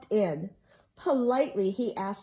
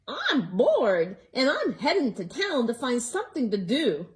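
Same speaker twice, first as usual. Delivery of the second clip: squawking hen; 4 dB louder than usual. Acted. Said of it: "the hen squawked".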